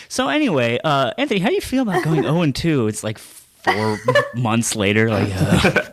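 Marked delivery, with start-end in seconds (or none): 0.1-2.9 mock interviewer. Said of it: "you should every time just be like".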